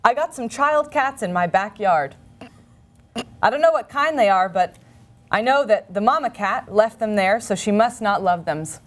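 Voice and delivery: lightly performed, earnest deadpan reading with pauses; naive ad reading. Acted. Reading a child cats ad to the co-host, earnest deadpan delivery. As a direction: read each odd phrase as if it made perfect sense. Reads a Craigslist ad in character.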